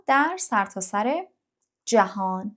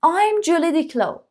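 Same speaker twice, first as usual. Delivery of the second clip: I'm Julie Diclo slow and higher; high slow model; slow model line; 6 semitones higher, 3 dB louder, much slower than usual. Shown as a demonstration. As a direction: read it like the girl, drawn out. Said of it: "model line again".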